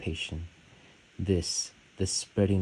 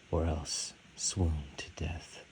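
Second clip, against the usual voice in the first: whispered; 7 dB quieter than usual. Acted. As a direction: whisper the closing words. Final line of love poem.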